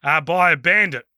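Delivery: put-on Southern Kiwi accent, lightly done; Alfred's monologue in an Invercargill accent; New Zealand accent. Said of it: "in a New Zealand accent".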